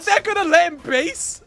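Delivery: high, loud laughing shout of disbelief; real shock on air at an outrageous play. Real, not acted. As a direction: yell it through a laugh, can't believe it. Stunned casters at a base steal.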